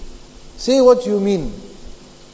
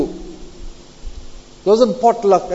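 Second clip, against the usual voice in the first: drawn out potluck; much slower than usual. Shown as a demonstration. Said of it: "I say potluck".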